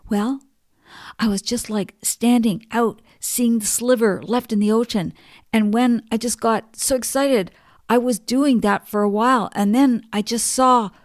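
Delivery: put-on high, bubbling retelling of a boy's thrill; excited boy. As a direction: relive the boy's rush, pitch lifted. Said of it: "He was so excited about it as he spoke".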